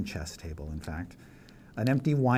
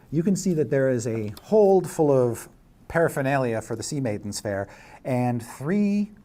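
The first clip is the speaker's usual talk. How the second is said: louder, higher suspenseful narration; game master's scene setting; 4 semitones higher, 6 dB louder than usual. Acted. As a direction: build menace with drawn-out key words.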